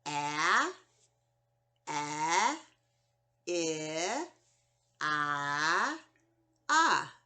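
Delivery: clipped short vowel sounds, one by one. Shown as a demonstration. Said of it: "Those are our short vowel sounds".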